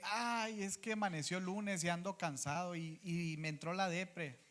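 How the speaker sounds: high, soft whiny excuse; lightly mocked complaint; mock lazy excuse. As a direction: whine it like a tired churchgoer. Mocking a tired churchgoer's excuse.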